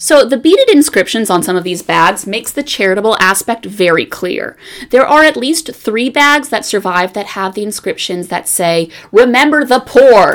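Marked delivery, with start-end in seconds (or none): 9.1-10.4 loud, raised, all-caps style delivery. Reading aloud an all-caps inscription on a bag: reading loudly. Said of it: "I say that very loudly because it is all in caps".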